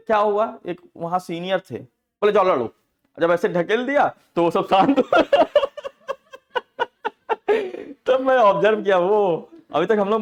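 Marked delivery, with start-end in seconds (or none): 2.3-2.7 scornful dare. Retold or imitated. Senior pushes fighters off. 5.3-8.0 high, loud burst of laughter; hearty laugh. Real, not acted. Laughter at hostel story.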